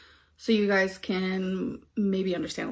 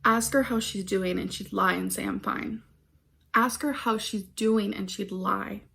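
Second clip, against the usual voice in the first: measured reading of a personal poem; poem recitation. Acted. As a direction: recite line by line with pauses between. Reads her poem aloud.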